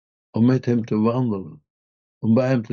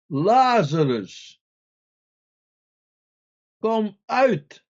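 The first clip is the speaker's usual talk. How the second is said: slow, drawn-out "Lazarus", then a ringing, higher "kom uit!"; loud call; 8 semitones higher, much slower than usual. A narrator's reading. Jesus calling Lazarus out of the tomb, slow loud ringing call. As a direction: call a dead man out of his grave with full voice. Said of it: "riep hij met grote stem".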